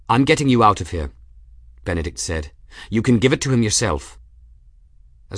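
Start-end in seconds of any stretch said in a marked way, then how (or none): 0.1-1.1 loud and fast, urgent. Acted. Urgent rescue of dying monk. 2.9-4.2 loud and fast, urgent. Acted. Urgent rescue of dying monk.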